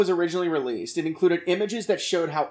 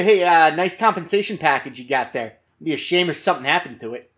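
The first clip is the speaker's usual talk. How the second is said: put-on smiling menacing loan shark in a Jersey accent; a Jersey mobster making a veiled threat; 4 dB louder than usual. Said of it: "Nice Jersey accent".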